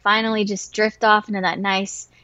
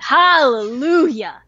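relieved hallelujah; 3 semitones higher, 3 dB louder, slower than usual. Retold or imitated. Frog finally dead.

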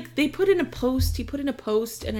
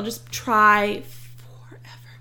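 whisper; 2 semitones lower, slower than usual. Real, not acted.

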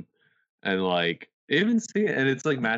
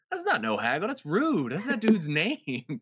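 indignant rant; 12 semitones higher than usual. Retold or imitated. Retelling his reaction to the ad, a high indignant rant. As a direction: rant like it's a personal insult. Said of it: "And I'm like".

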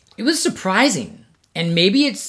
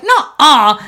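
denial; 6 semitones higher, 5 dB louder than usual. Retold or imitated. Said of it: "I was like".

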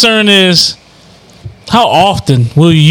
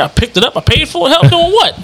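indignant; 10 semitones higher than usual. Real, not acted. Indignant denial of getting help.

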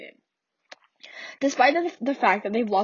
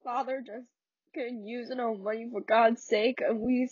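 Walter's bitter outburst. Acted. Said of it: "I'm not good at accents".

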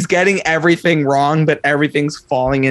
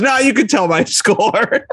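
laughing; 5 semitones higher than usual. Retold or imitated. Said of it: "She literally goes".

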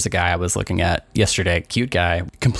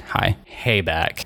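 passive aggressive; much slower than usual. Retold or imitated. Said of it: "I respond a little passive aggressively".

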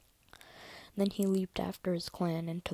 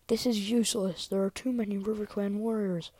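raised, urgent battle cry; higher, pressing yell; yelled protest; 3 semitones higher, 5 dB louder than usual. Acted. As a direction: protest loudly over the fighting. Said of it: "The yell came from a warrior".

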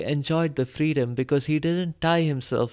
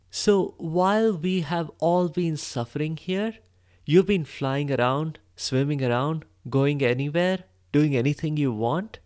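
accusatory. Acted. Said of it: "Lalchi asked accusingly".

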